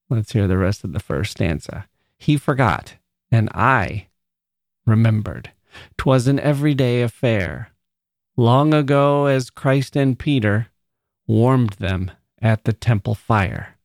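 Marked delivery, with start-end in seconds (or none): 2.2-13.8 measured poetry reading with held pauses; poem reading. Acted. Host reading Dickinson's stanza to listeners, as a measured poem reading.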